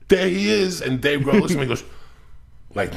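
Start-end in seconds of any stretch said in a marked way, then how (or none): 0.1-0.8 high, loud thrilled call; excited recognition. Retold or imitated. Spotting Dave Grohl at the mall, starstruck excitement. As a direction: blurt it out starstruck.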